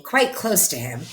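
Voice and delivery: ordinary delivery, nothing marked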